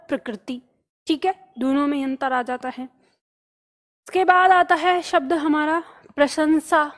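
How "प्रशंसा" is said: प्रशंसा said slowly for writing; slow teacher voice; slow dictation. Shown as a demonstration. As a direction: draw it out. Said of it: "शब्द यह है जैसे".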